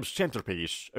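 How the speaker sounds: centerpiece slowly with the t sounded; ordinary T. Shown as a demonstration. Teacher keeping it easy for all listeners, ordinary T. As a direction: say centerpiece as "sen-ter-piece".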